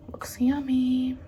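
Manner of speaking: slow soft whisper. Real, not acted. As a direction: breathe it out quietly. Whispered while tasting soup.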